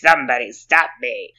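Jim Carrey impression. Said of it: "all I know how to say".

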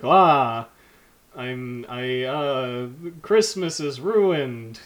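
slow, lightly voiced Hannibal; half-hearted Hannibal impression, halting. Vampire with three lines, lightly done Hannibal voice. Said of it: "doing his Hannibal voice and being like".

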